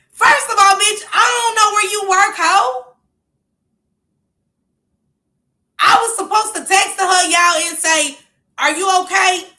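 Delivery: loud, high, fed-up rant; indignant outburst. Real, not acted. Woman answers the other woman's text, loudly indignant. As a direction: tell her off at full volume.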